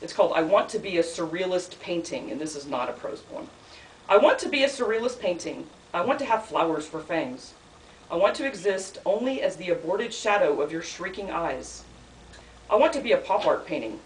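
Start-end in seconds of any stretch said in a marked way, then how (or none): 4.1-14.0 measured recital, each wish its own line; poetry reading. Acted. Poet reading a surrealist poem to an audience, measured recital. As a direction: read it as a poem with a repeated opening. Reads third poem aloud.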